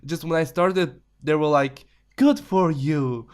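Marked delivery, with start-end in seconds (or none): 2.1-3.3 slow, drawn-out parental approval; stretched-out token praise; mock encouragement. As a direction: imitate parents humoring you, very slowly. Imitating parents' underwhelmed reaction.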